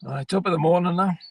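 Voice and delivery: a light stage-Irish greeting; mock Irish accent. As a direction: tip the hat with a hint of Irish. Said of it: "a wee bit of the Irish".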